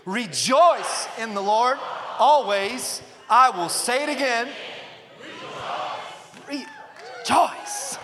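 joyful, lifted recitation, drawn out; with some joy. Shown as a demonstration. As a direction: lead the crowd in it joyfully. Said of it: "Now say it like you got some joy".

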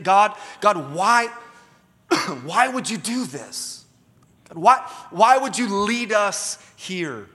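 a slow, drawn-out mock whine to God; whiny Israelites. Preacher voicing Israelites complaining to God, mock whine. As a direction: lightly play the grumbling Israelites, slowed down.

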